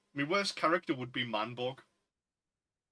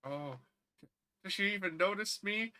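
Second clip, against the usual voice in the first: higher, softly pleading lovesick voice; lovelorn Baron; 5 semitones higher, 3 dB quieter than usual. Retold or imitated. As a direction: fret like a hopeless admirer. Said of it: "he's just like".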